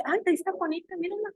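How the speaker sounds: soft, high admiring voice; lightly acted tender delight; imagined fond admiration. Imagines God admiring her.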